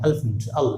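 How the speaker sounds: "अल्फेंट" in two syllables, uhl-funt; hidden middle E. Shown as a demonstration. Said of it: "ये अपने आप छिप जाएगा".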